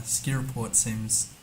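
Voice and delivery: slow Irish lilt; Irish accent. Real, not acted. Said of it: "why did I say it in an Irish accent?".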